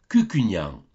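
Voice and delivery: léger soupir sur « Cucugnan »; « Cucugnan » soupiré par l'ange; long soupir. Acted. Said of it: "en poussant un long soupir". (l'ange lit le nom dans son livre, avec un léger soupir)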